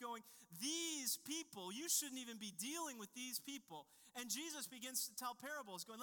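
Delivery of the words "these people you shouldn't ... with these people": contempt. Retold or imitated. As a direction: look down your nose at them. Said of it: "upon them with contempt".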